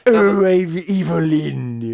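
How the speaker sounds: slow hissing villainess voice; drawn-out s like a snake. Retold or imitated. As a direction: hiss it like a cartoon sorceress. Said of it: "a hissing voice or something".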